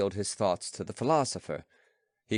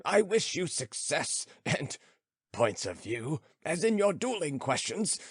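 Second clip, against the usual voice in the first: lightly voiced philosopher, higher and musing; old philosopher; 6 semitones higher than usual. Philosopher musing to his friend, lightly voiced. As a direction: ponder aloud, slowing on stone still.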